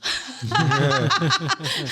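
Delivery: long, high burst of laughter; hearty laugh. Real, not acted. Amused at having nearly misstated the date, laughing. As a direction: laugh loudly at your own slip.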